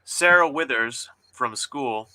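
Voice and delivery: steady, even story narration; story reading. Acted. Author reading her diner scene aloud to guests. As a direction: read the scene out calmly.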